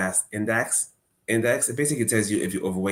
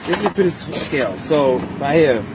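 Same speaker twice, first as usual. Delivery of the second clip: recorded clip; 6 semitones higher, 6 dB louder than usual. Real, not acted. Video clip of own review.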